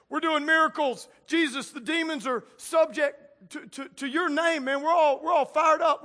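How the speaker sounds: a touch of fired-up bragging; excited disciples. Retold or imitated. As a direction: disciples returning from miracles, mock fired-up boasting. Disciples boasting back to Jesus.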